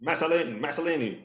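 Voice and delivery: Mazzolini as mass-uh-LEE-nee, four syllables; extra vowel. Real, not acted. Attempting the name after hearing it spelled, Mazzolini mispronounced with an extra vowel. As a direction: try Mazzolini with a stray vowel between s and l. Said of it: "You're still putting an extra vowel in there".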